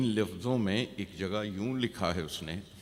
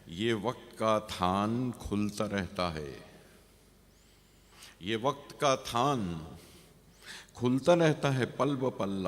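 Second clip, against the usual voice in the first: measured verse with a lifted repeat; poem recitation; 3 dB louder than usual. Acted. Poet likens time to a bolt of cloth, measured recitation. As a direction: recite phrase by phrase, pausing between lines.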